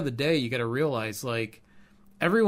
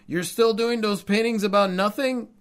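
put-on Cuban accent dad; 8 semitones higher, 5 dB louder than usual. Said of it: "he would say in his thick Cuban accent".

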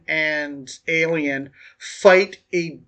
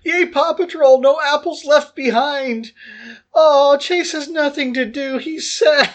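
put-on much higher, childlike excited squeal, slowing at the end; gushing cartoon fan; 7 semitones higher than usual. Groggy on pain meds, gushing to Nick about Paw Patrol, high giddy squeal. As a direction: cheer it like a giddy kid watching cartoons.

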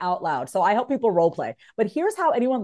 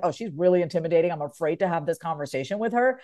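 nervous; 4 semitones lower, 4 dB quieter than usual. Retold or imitated. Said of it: "Let's just say you're like".

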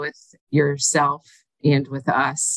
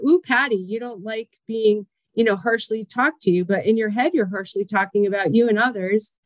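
higher, teasing self-talk; self-scolding inner voice; 6 semitones higher than usual. Retold or imitated. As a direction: scold yourself playfully. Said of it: "I'm like".

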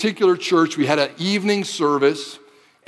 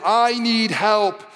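pleading cry; 6 semitones higher, much slower than usual. Acted. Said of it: "The widow cries out and says".

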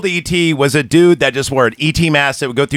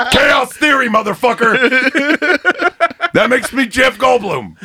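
Goldblum again; 5 semitones higher than usual. Acted. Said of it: "That wasn't Goldblum at all".

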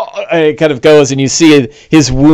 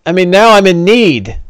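higher, lightly voiced pleading orc; 5 semitones higher than usual. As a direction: wheedle as a needy orc. Orc pleads for a healing potion.

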